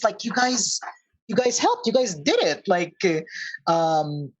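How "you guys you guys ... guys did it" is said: higher-pitched, happy amazement; amazed. Acted. Looks to the rest of the party, amazed. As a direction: marvel at what they pulled off. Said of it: "like, amazed".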